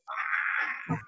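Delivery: imitated frightened "ah"; scared "ah". Shown as a demonstration. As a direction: demonstrate being scared with an "ah". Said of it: "¿Cómo es la imitación de scared?".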